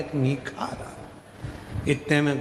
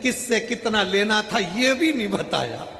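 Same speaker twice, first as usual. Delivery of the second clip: raised-pitch crying son act; mock crying; 6 semitones higher than usual. Son lamenting his father's untold debts, mock crying. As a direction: pretend to sob, pitched up. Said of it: "बेटा रो रहा था".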